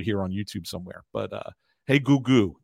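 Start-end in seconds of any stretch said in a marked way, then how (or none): 1.9-2.6 put-on old Italian grandma. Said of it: "old Italian grandmother".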